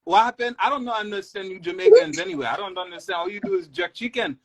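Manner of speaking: high, defensive Haitian robber; Haitian accent. Acted. Haitian robber answering his angry partner in a Haitian accent. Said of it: "a Jamaican and a Haitian".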